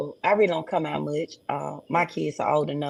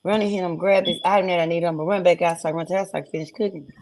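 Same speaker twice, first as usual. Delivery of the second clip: fast, hurried self-talk; rushed inner panic; faster than usual. Retold or imitated. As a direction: rattle it off in a panic. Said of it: "and I'm like".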